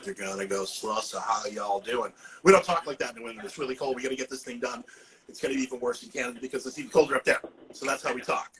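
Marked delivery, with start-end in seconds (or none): 0.6-2.1 loose, slurred Southern drawl; lightly imitated Southern US accent. New Englander mimicking a greeting from the South, Southern drawl. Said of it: "they open their mouth and they drawl". 2.4-4.8 quick, run-together New England delivery; fast New England talk. Shown as a demonstration. New Englander contrasting himself with Southerners, fast talk. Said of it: "we speak fast".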